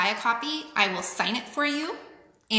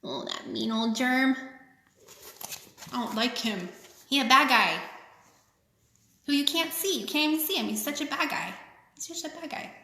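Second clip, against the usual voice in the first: playful grumbling at a bad guy; teasing child-like dislike of the germ; mock disapproval. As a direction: pout it out for the little ones. Aside mocking the germ for kids.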